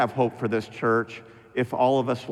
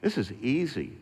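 softer mock congregation remark; imitating listeners; 5 dB quieter than usual. Congregation thinking to the pastor, imitated softly. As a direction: toss it off quietly as a doubting listener. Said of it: "some of you guys are thinking".

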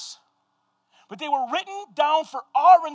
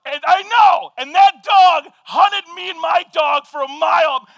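worked-up shout; 3 semitones higher, 5 dB louder than usual. Retold or imitated. Telling an angry dog story.

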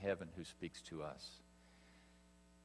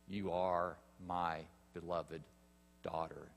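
slow, soft and lower, tenderly spoken; tender blessing; 3 semitones lower, 5 dB quieter than usual. Acted. Preacher speaking God's blessing over the baptized, soft and tender. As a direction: say it gently like a blessing over a child. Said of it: "the voice says the same thing".

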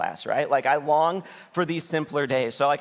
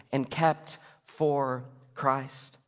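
slow tender affirmation; 3 dB quieter, much slower than usual. Acted.

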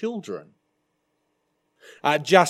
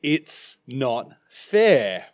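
mock whine; 2 semitones lower, much slower than usual. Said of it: "they cry out".

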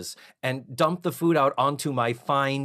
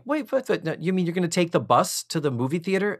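alarmed surprise; 5 semitones higher, faster than usual. Retold or imitated. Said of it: "Missus Garrett's like".

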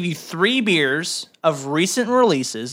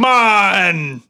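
louder barked second syllable; shouted syllable; 6 dB louder than usual. Pretend. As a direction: punch out the second half. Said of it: "the next person says the next syllable".

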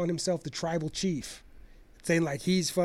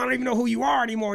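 higher, fast and urgent; rushed quote; 6 semitones higher, much faster than usual. Retold or imitated. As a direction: fire it off in a rush. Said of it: "he told him".

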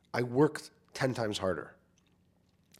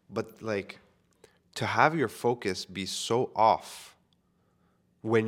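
whisper; much slower than usual. Real, not acted. Confessing embarrassing focus mistake.

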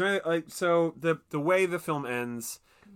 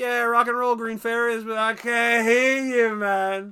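much higher, louder rocker yell; rock singer voice; 9 semitones higher, 7 dB louder than usual. Retold or imitated. Podcaster imitating a rock singer calling out to the crowd, loud rocker yell. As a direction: call to the crowd like a hazy rock star. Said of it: "I've heard a singer say".

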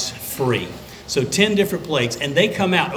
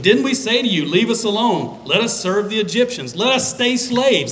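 whiny complaint; 4 semitones higher than usual. Retold or imitated. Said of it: "That's what they said".

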